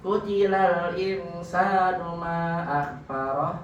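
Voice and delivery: slow reading rising on "Kutilal"; amazed recitation. Shown as a demonstration. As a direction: recite it slowly in wonder. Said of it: "dibaca ya".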